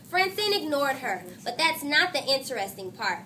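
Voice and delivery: lively read-aloud to a class; story reading. A narrator's reading. Teacher reading a chapter book to her class, animated. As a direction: read the chapter with voiced characters.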